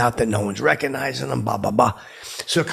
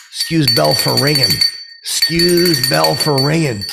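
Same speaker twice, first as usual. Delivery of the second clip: retold parting call; 5 semitones higher, 6 dB louder than usual. Repeats parting line louder, drawn out.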